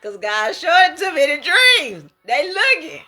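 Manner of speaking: laughing. Real, not acted. Gleeful slow teasing repeat.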